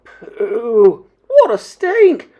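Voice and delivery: high, loud cry of revulsion; disgusted cries. A narrator's reading. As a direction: cry out at a foul smell, drawn out. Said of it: "there were cries of".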